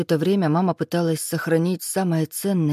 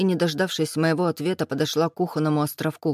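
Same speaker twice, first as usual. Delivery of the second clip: ordinary delivery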